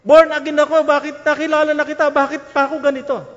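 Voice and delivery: high, loud pleading lament; anguished cry to God. Retold or imitated. Caught thief crying to God at home, loud anguished plea. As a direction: wail it out to the Lord in despair. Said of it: "Umiiyak siya".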